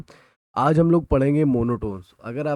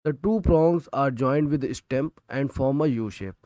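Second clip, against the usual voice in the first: reading the textbook line word by word, slowly; slow, deliberate dictation for students to copy; much slower than usual. Shown as a demonstration. Teacher dictating a textbook definition to students, slowly.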